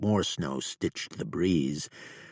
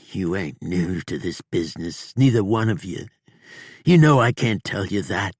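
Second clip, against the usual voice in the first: defiant outlaw; 3 semitones higher, 7 dB louder, faster than usual. A narrator's reading. Bob defiant through pain.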